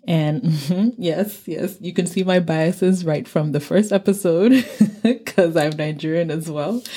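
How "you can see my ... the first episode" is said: laughing. Real, not acted. Laughing at her own bias.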